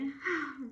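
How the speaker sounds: a long bored dog sigh. Acted. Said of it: "Scooter sighed".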